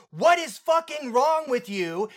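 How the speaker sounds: high, slow, exasperated disbelief; baffled yell at the screen. Pretend. Viewer yelling at the character.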